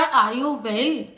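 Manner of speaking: drawn-out, very slow reading; slow teacher demo of the phrase; slow example sentence. Shown as a demonstration. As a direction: spell out each word slowly for the class. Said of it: "एक हो गया यार".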